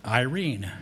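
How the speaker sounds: "Irene" said as eye-REEN; "Irene" as eye-REEN, falling at the end; Greek pronunciation. Shown as a demonstration. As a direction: pronounce "Irene" with a long eye, then reen. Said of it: "it's pronounced".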